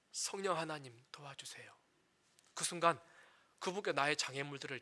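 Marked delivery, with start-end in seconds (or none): 0.1-1.7 soft, low plea for help; quiet prayer. Shown as a demonstration. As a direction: pray it quietly, like a plea under the breath. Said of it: "순간 멈춰". (낮고 조용하게 간절히 드리는 기도)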